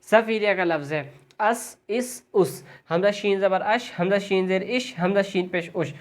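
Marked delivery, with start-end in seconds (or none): 1.4-2.6 اس with a sharp whistling س; اس, the س hissed through the teeth. Shown as a demonstration. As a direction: let the س of اس whistle. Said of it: "سیٹی کی آواز نکلے گی".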